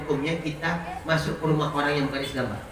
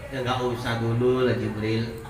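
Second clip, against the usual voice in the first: calm refusal; 4 semitones lower than usual. Acted. The Prophet calmly answering Jibril, lower. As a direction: gently decline.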